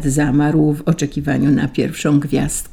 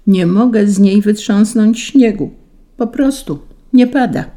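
high, louder whining complaint; angel's moan; 5 semitones higher, 4 dB louder than usual. A narrator's reading. An angel shaking the stuck cloud, high-pitched moaning. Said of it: "jęknął anioł, ze wszystkich sił potrząsając".

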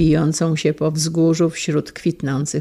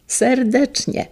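Serdecznie said higher and slow, each syllable leaned on; stressed repetition; 7 semitones higher, slower than usual. Acted. Father repeating Serdecznie, slow and heartfelt. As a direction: linger on Serdecznie to mean it.

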